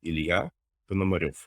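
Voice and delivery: Ilya Ponomarev with Russian stress on the last syllable; Russian pronunciation. Shown as a demonstration. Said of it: "learn how to pronounce your last name".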